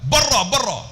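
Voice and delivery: high, sharp repeated order; imitated angry Arab. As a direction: shoo them away crossly. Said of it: "kalau marah dia kata apa".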